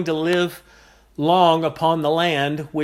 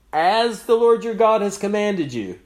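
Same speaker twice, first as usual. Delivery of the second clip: "as the Lord your God has commanded you" pitched higher for emphasis; emphatic; 4 semitones higher than usual. Shown as a demonstration. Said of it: "for emphasis".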